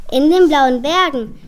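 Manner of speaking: firmly correcting the misheard words. Acted. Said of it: "stellt Lisa richtig".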